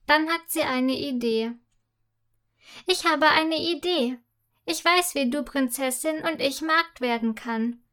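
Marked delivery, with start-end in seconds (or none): 2.9-7.8 excited. Acted. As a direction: blurt out the idea. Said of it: "ruft sie aufgeregt".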